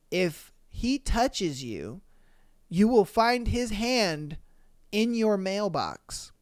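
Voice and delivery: slow, deliberate menace with spaced-out phrases; ominous threat. Retold or imitated. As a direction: read the threat out slowly, phrase by phrase. Retold threatening text from a stalker.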